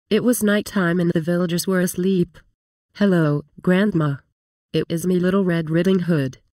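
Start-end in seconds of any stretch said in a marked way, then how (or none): 2.9-6.4 put-on wolf lightly faking a little girl, a bit louder; a hint of a child's voice put on by the wolf; wolf mildly mimicking the girl at the door; faked kid voice. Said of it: "I faked the kid's voice".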